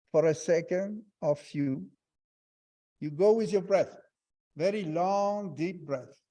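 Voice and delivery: guided meditation. Acted. Teacher guiding students through a breath exercise, calm meditation voice.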